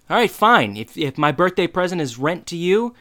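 sudden high, loud outburst; freaking out. Retold or imitated. Son yelling at his dad over rent. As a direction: blow up at your dad. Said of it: "Eric freaks out".

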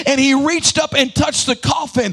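chanted sermon over music, building; rising preached litany. Acted. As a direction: build the rumor list toward a peak.

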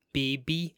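"baby" tried in imitation, ending in "bee"; imitated pronunciation. Recalling how a TV character says it, imitated pronunciation. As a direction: attempt her odd "baby", final vowel still "ee". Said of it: "how does she say it".

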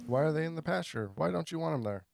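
high-pitched baffled questions; mock confusion. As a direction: play along as a bewildered learner. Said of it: "And they're like".

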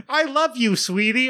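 imitating a child's loving line; sweet little daughter. Quoting the game's voice lines.

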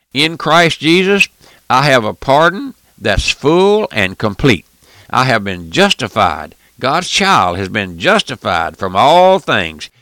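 preacher driving the point home to the church; fervent preaching. Acted. Preacher proclaiming his justification to the congregation, full fervour.

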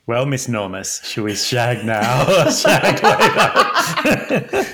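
Austin Powers impression. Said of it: "It's so Austin Powers".

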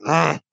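short mock grunt; imitated grunt. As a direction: grunt like a reluctant old man. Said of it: "makes this grunt".

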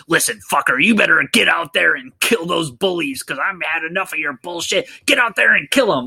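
mock aggressive phone villain; super aggressive. Evil caller ordering Hoax to kill the bullies, mock aggressive. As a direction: push the orders harder, climbing in pitch and speeding up at the end. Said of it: "he goes super aggressive".

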